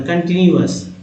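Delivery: कंटिन्यूअस as kan-ti-ni-yu-as; corrected reading. Shown as a demonstration. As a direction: repeat कंटिन्यूअस with a clear ni-yu. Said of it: "हालांकि कंटिन्यूअस पढ़ना".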